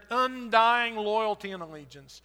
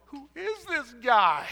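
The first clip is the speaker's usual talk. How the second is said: higher, louder, slow amazed exclaim; 7 semitones higher, 6 dB louder, slower than usual. Acted. Disciples after the loaves and fish, loud slow amazement. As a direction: belt out the wonder, drawn out.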